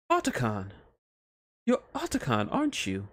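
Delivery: a hint of a sultry witch; lightly voiced Bayonetta. Witch greeting the doctor, a touch excited.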